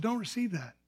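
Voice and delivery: a soft, hushed inner voice; little voice. Retold or imitated. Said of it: "I heard this little voice said".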